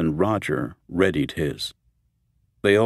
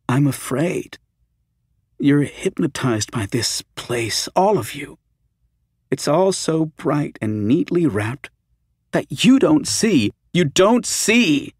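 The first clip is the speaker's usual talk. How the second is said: high, slow, frightened plea; afraid and pleading; 8 semitones higher, 3 dB louder, slower than usual. Acted. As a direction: beg him, voice climbing in fear. Fran's fearful desperate plea.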